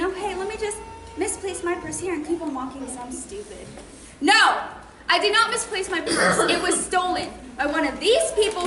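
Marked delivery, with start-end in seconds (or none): 0.0-3.7 softer, mocking self-imitation; mock airhead. Mocks herself as careless person. 4.2-6.4 indignant denial. Acted. Angry denial of misplacing purse.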